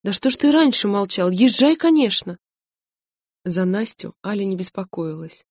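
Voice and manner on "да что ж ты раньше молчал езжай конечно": rising, louder and higher to an eager yes; delighted exclamation, higher and louder; excited gasp. A narrator's reading. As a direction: burst out gladly. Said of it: "Она ахнула, всплеснула руками".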